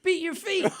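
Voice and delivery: high, loud rallying shout; retold scream. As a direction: yell it out like a stage performer. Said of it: "he just screamed".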